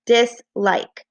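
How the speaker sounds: slow "dislike", parted into dis and like; syllable by syllable. Shown as a demonstration. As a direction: scoop "dislike" into two syllables. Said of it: "each syllable".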